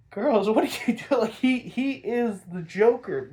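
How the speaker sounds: high-pitched "what are you thinking" reproach; incredulous scolding. Real, not acted. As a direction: call them out, baffled. Scolding the women in disbelief.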